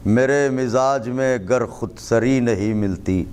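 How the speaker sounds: slow, measured couplet delivery; poetry recitation. Acted. Poet reciting to an appreciative gathering, measured recitation. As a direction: recite the verse with drawn-out phrases.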